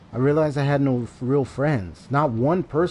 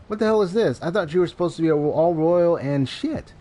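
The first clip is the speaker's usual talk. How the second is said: higher, scornful thug voice; mocking thug; 4 semitones higher than usual. Thug mocking the timid dominatrix, scornful. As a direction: scoff at her weakness.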